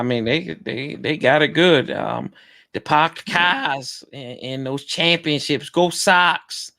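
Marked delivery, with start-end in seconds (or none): 2.7-6.7 lightly hammed-up Boston accent, slowed down; bad Boston accent. Co-host teasing Boston fans, bad Boston accent. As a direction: drag out a badly faked Boston accent. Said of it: "trying to do a bad accent".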